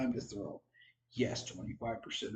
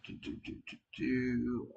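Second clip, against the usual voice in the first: yawning. Real, not acted. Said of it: "Apologize for the yawns".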